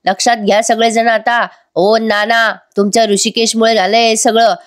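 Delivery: a hammed-up yell at everyone; shouting. Son yells at family about blame, mild mock shout. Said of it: "मोठ्या मोठ्याने आरडाओरडा करतो".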